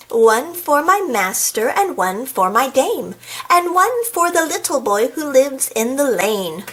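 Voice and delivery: lilting verse with drawn-out words; nursery rhyme recital. Acted. Reader recites Black Sheep to the audience, lilting storytime delivery. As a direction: read it as a swinging storytime rhyme.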